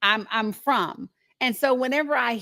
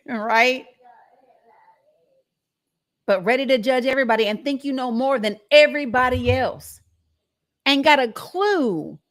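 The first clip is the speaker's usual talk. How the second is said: usual speaking voice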